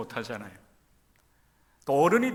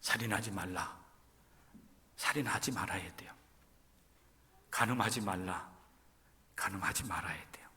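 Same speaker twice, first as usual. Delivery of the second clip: low, much softer commandment reading; solemn hush; 6 semitones lower, 8 dB quieter than usual. Real, not acted. Preacher quietly recites commandments to the congregation. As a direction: lay down God's law in a hush.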